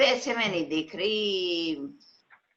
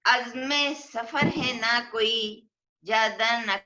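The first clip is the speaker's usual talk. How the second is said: measured, drawn-out verse delivery; poetry reading at a mushaira; ghazal recitation; 3 semitones higher than usual. Acted. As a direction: recite it as an Urdu couplet, lingering on the refrain.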